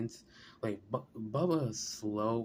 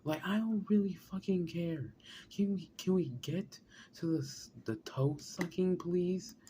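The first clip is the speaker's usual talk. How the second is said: impatient outburst; 8 semitones higher than usual. Real, not acted. Friend impatiently interrupts the story.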